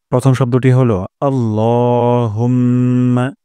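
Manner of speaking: আল্লাহুম্মা with the ল drawn out one alif; slow Arabic recitation. Shown as a demonstration. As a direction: recite আল্লাহুম্মা slowly, stretching the ল. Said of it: "এখানে ল একালির টান দিব". (ধীরে আল্লাহুম্মা, ল এক আলিফ টেনে)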